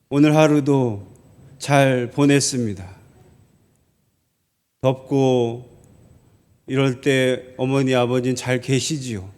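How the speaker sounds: low, soft, composed letter voice; putting on composure. Retold or imitated. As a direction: read it low and measured, as if all is well. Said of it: "이런 식으로 좀 멋지게 쓰려고".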